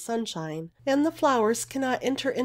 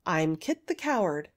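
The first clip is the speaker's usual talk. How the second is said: lower, unadorned admission; simple; 4 semitones lower than usual. Acted. Kit introduces himself to the girl, simply. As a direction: own up simply, without show. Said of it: "he said simply".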